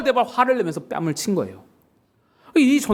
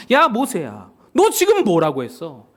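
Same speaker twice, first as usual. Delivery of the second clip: higher, indignant challenge building in force; confrontational 하나님; 5 semitones higher than usual. Acted. God confronts Moses for cursing the people, acted angry rebuke. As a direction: take him to task like an outraged parent. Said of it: "모세에게 따지시는 겁니다".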